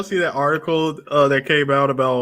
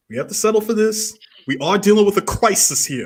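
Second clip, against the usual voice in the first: crisis pushed out, pitch raised; stress on crisis; 6 semitones higher than usual. Shown as a demonstration. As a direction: hit the word crisis like a politician. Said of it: "Emphasis on the word crisis".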